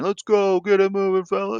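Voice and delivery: high-pitched mock sideline yell; imitated coach's scream. Imitating someone screaming at practice as the pads hit, mock yell. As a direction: holler it like someone at training camp, half-screamed. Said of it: "you hear someone screaming".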